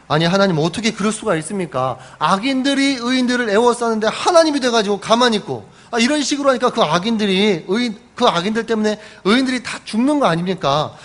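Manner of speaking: a touch of stubborn arguing back at God; defiant protest. Acted. Habakkuk stubbornly talking back to God, mild defiance. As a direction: talk back hard but understated. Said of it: "바락바락 대들어요".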